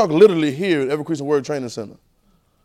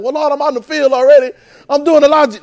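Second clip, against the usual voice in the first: higher, louder whiny protest; the preacher excusing himself to God, higher; protesting excuse; 8 semitones higher, 6 dB louder than usual. Acted. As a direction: plead your case to God.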